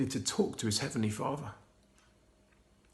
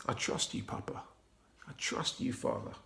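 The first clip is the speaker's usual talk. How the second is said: soft voiceless whisper of trust; 8 dB quieter than usual. A narrator's reading. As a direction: barely breathe the words to his father. Jesus whispers his trust.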